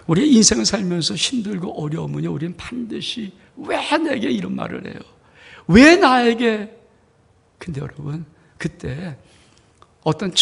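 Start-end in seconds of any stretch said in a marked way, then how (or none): 3.6-6.7 high, drawn-out why me; a wounded cry of why me; plaintive complaint. Acted. Complaining believer cries out. (높고 길게 끄는 하소연)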